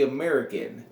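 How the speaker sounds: drawn-out, straight-faced announcement; deadpan group introduction, each word spaced out. Retold or imitated. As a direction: announce the name slowly, completely straight-faced. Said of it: "he says this with a straight face".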